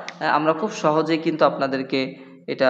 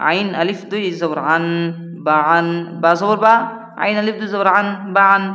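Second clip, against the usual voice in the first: Qaida spelling recitation. Acted. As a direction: spell it out to students in a chanting beat. Spelling drill continues.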